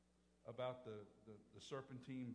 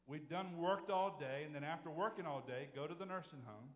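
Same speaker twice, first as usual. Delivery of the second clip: emphatic preaching; 7 dB louder than usual. Acted. Sermon emphasis.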